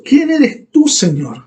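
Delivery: voicing Paul struck down, trembling before the Lord; awed trembling question. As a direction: ask it as a fallen, shaken man. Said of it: "Escuche eso".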